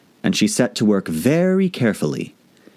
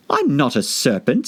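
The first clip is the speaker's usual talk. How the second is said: indignant; 5 semitones higher than usual. Acted. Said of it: "said Alice indignantly".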